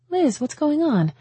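high, slow, questioning woman's voice; puzzled concern. A narrator's reading. Friend greets unexpected Liz at the door, puzzled concern.

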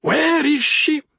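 high, slow demanding snap; witch snapping. Acted. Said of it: "the witch snapped".

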